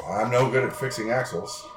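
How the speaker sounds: light mock Russian accent. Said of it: "I say in a Russian accent".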